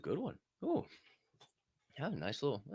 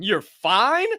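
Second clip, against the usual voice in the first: incredulous; 4 dB louder than usual. Shown as a demonstration. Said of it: "Shut the fuck up with that fine".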